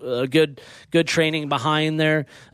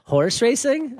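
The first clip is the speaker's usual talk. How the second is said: high-pitched, thrilled imitation; excited child's question; 9 semitones higher, slower than usual. Dad retelling Luca hearing the race bugle, excited imitation. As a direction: mimic an excited, surprised question, voice lifting high. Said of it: "he got all excited and said".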